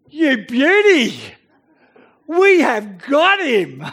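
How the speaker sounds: loud, eager cheer of the men; hushed-but-thrilled soldiers hamming up the find; excited men. Acted. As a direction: gloat like you've caught him at last. David's men excited in the cave.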